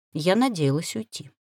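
ordinary delivery, nothing marked

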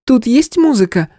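a loud, high call out; loud question. Acted. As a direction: ask loudly across the room. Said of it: "громко спросила брюнеточка". (громко спрашивая)

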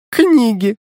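high, loud mocking echo of "Книги"; mocking mimic. A narrator's reading. Girl mocks his answer, high and loud mocking. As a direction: throw "Книги" back high and loud in mockery. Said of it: "передразнила меня Алина".

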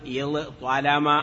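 اضطلم as iẓ-ṭalama, both consonants separate; no assimilation. Shown as a demonstration. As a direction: sound ẓ and then ṭ distinctly in اضطلم. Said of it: "نترك الإدغام".

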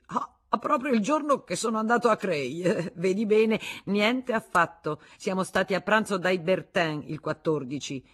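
high, loud, laughing denial; triumphant laugh. Acted. Husband scoffing at his wife's dates, triumphant. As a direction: crow that he caught her out.

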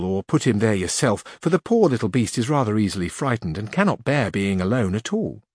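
lightly voiced Sancho. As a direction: plead sweetly for his donkey.

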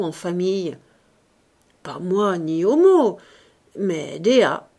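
lightly acted bitter old showman, lively swings; grumbling Ursus. Ursus talking to himself about dying, theatrical grumbling. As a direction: hold forth in mock-philosophical grumbling.

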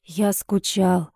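as if from far away, longing; strange voice. A narrator's reading. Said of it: "произнёс он чужим голосом".

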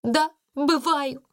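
high, drawn-out admission; exclaimed. A narrator's reading. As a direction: burst out with it, stretching the words. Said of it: "воскликнула она".

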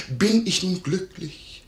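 high, slow, theatrical imitation; retold calling out. Innkeeper quotes the lady to her maid, high imitated exclamation. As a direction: imitate a lady's emotional cry. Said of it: "rief sie, die Augen auf mich gerichtet".

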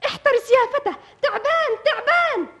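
high, loud panicked cry; warning shout. Acted. Girl shouting at the young man about the snake, panicked. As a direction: scream the warning across.

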